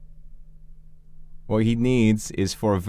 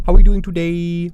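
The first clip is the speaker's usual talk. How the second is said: big bright hello to chat; loud greeting; 7 semitones higher, 10 dB louder than usual. Real, not acted. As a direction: call out the greeting loudly.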